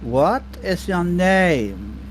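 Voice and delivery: mock bridgekeeper. Dad playing Bridge of Death with daughter, slow mock bridgekeeper. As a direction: draw out the question like a solemn keeper. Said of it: "I used to sit there and go".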